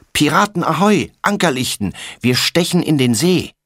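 put-on excited little boy shout. A narrator's reading. Little brother bursts in on his sister, excited high shout. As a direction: shout it like a kid playing pirates. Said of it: "rast Tommy auf sie zu und schreit".

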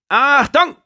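high, loud barked command; drill sergeant shout. Acted. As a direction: bark it across the barracks. Drill sergeant wakes recruits.

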